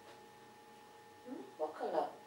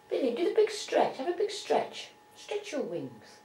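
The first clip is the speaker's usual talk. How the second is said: talking to a pet; 3 semitones higher, 6 dB louder than usual. Real, not acted. Coaxing pet bird to stretch.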